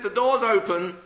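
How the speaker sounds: high-pitched call to a visitor. Acted. Trapped knitter telling the visitor to enter, high call. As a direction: sing it out to someone outside. Trapped woman calls to the door.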